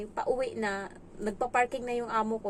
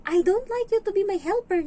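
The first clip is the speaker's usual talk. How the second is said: put-on higher, louder bratty child; child's voice; 9 semitones higher, 6 dB louder than usual. The kid telling the helper off, higher and whiny. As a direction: whine it like a spoiled kid. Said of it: "Sabi niya ganun".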